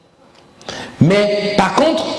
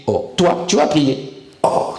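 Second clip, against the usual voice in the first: low mock astonishment at a sinner praying; 3 semitones lower than usual. Satan to a drinker who wants to pray, mocking. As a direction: scoff with a drawn-back "oh". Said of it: "il se moque même de toi".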